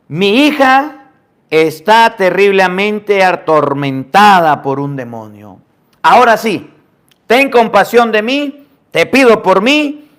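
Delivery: pleading mother. Acted. Woman begs Jesus for daughter.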